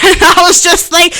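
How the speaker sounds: laughing through the words; giggling as you set it up. Real, not acted. Laughing while telling story.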